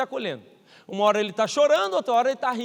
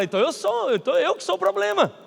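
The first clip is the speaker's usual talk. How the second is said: higher, whiny hurt parent; wounded self-pity; 8 semitones higher, 3 dB louder than usual. Retold or imitated. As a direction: voice the hurt, sliding up.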